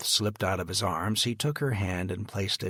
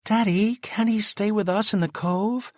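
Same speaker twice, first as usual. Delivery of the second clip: crying plea; 13 semitones higher, 7 dB louder than usual. A narrator's reading. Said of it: "Elizabeth started to cry".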